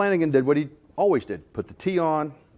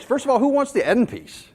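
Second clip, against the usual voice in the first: laughing; 11 semitones higher, 4 dB louder than usual. Real, not acted. Laughing at his own joke.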